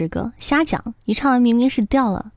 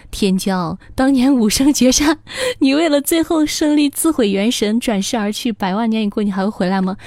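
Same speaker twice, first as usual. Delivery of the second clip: grand narrator voice. Acted. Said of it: "君子语说".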